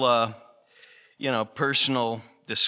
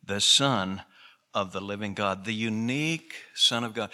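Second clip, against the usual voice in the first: Peter's confession; 5 semitones lower than usual. Retold or imitated. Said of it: "Peter said".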